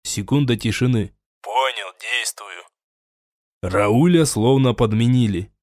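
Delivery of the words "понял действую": much softer, lower, distant reply; radio acknowledgement. A narrator's reading. The soldier confirms over radio, quiet. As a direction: confirm the order. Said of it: "Это их канал переговоров".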